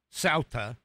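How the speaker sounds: "Ceuta" pronounced SOW-tuh; demonstrated pronunciation. Shown as a demonstration. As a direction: give "Ceuta" as SOW-tuh, stress first. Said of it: "that's how it's pronounced".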